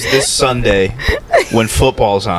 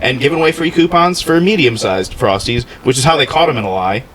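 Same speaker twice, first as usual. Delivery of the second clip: mock defendant; 3 semitones higher than usual. Mock legal defense rant.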